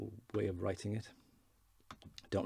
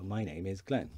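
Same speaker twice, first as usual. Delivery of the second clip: formal. Shown as a demonstration. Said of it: "fairly formal way".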